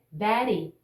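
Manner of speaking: "Betty" with a tapped T; American flap in "Betty"; flap T demo. Shown as a demonstration. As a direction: say "Betty" with a quick flap in place of the T. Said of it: "vamos ver alguns exemplos aqui".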